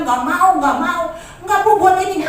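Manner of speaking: mild mock loud refusal to a phone seller; firm refusal. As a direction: shut the caller down. Refusing the credit caller.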